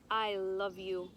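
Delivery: slow, lightly voiced lovestruck prince; tender prince. A narrator's reading. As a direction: say it like a devoted suitor. Prince declares love.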